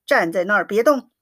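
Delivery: quick, mildly stern order; a touch of an angry father's command; sharp command. Acted. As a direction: bark it out fast but understated. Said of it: "一面喝令".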